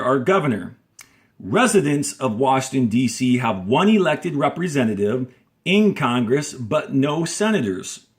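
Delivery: clear, steady read-aloud of a textbook passage; reading aloud to class. Acted. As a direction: read the text out for students to follow along. Teacher reads the passage aloud.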